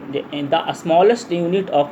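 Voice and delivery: very slow, word-by-word dictation; drawn-out words at note-taking speed. Shown as a demonstration. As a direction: read it out slowly for students to copy down. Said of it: "धीरे धीरे मैं बोलूँगा".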